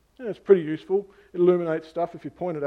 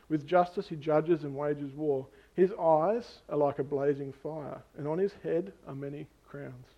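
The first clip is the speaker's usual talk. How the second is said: deliberate, unhurried scripture reading; slow reading; slower than usual. Real, not acted. Preacher reading John's vision to the congregation, slow and measured. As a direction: take each phrase slowly, with pauses. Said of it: "I'll do my best to read them slowly".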